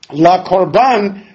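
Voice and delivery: "La korban" diucapkan sangat pelan dan jelas; slow citation. Shown as a demonstration. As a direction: say "La korban" slowly, word by word. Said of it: "remember that the word la korban".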